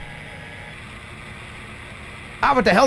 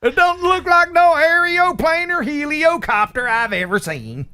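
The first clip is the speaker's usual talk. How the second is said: redneck voice; 10 semitones higher than usual. Acted. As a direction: play a hick who won't ride it. Hick voice, redneck lead-in.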